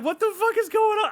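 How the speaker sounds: high, loud, disbelieving yell; exasperated shout at a baffling movie; incredulous shout. Retold or imitated. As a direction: blurt it out in outraged disbelief. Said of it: "I know I'm, like, getting excited".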